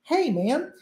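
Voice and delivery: casual American Hey, man; friendly English greeting; English phrase. Shown as a demonstration. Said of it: "que é como se eu dissesse assim".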